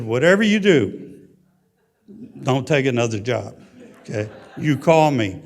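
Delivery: loud and insistent: don't you dare; wife's emphatic warning. Retold or imitated. Wife warning husband not to take a job, loud and insistent.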